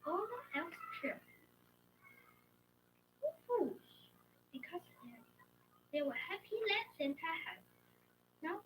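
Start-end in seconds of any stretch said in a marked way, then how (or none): 3.2-3.8 cheer. Acted. Elves cheer.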